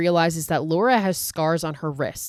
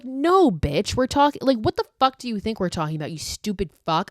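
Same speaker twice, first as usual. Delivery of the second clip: exasperated retort; 5 semitones higher than usual. Pretend. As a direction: snap back at him like he's an idiot. Speaker's imagined retort to Carlos.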